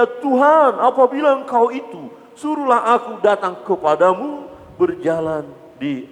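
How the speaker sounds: high, loud cry to the Lord; Peter calling out. Acted. Peter calling to Jesus from the boat, high loud cry. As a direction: call out boldly across the water. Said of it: "Lalu Petrus berseru".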